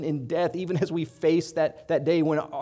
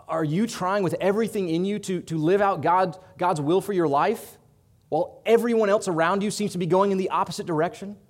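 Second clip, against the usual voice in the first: louder, higher, pressing questions; rising passion; 5 semitones higher, 6 dB louder than usual. Acted. Preacher pleading with the congregation, rising passion. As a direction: build the urgency with each clause.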